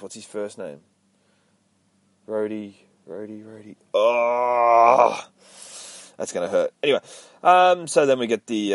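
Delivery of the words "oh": long, loud drawn-out "oh"; frustrated groan. Real, not acted. Host can't remember a character's name, loud groan. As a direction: groan at your own failing memory.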